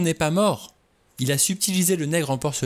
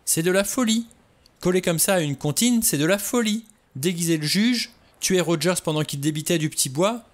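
much higher, pressing on breathlessly; agitated outburst; 8 semitones higher, 3 dB louder than usual. A narrator's reading. Vera insisting to the men the murders are madness, much higher. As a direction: build the list of horrors urgently.

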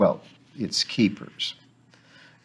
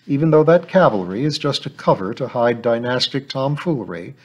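a little bitterly; 3 semitones higher than usual. Acted. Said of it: "she asked a little bitterly".

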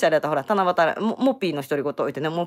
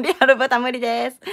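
raised, higher-pitched announcement; loud voice; 6 semitones higher, 6 dB louder than usual. Real, not acted. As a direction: say it loud so everyone hears. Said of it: "もう一回大きい声で言うけど". (大きい声ではっきり宣言)

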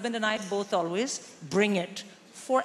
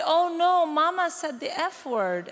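put-on high, louder gasp of a scandalised child; child's shocked "oh no", pitched up high; shocked little girl; 6 semitones higher, 3 dB louder than usual. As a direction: play the horrified youngest tattling on mum. Youngest child voiced at lunch.

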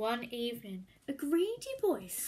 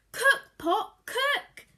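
louder, higher shout; shouting spell; 10 semitones higher, 10 dB louder, slower than usual. A narrator's reading. Greedy boy shouts the magic words at home.

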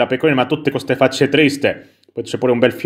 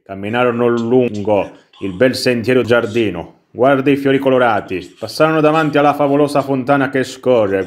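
bedtime story narration. Acted. Player reads the little story to the baby, measured storybook narration. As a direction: read a fairy tale to a little one. Legge la storiella.

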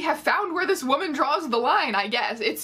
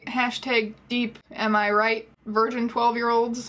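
mocking jab. Mocking the book's fans.

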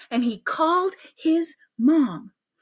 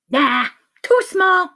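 high, slow dismissal; dismissive doctor; 7 semitones higher, 3 dB louder, slower than usual. Acted. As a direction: reject it in a put-on voice. Doctor rejects needle.

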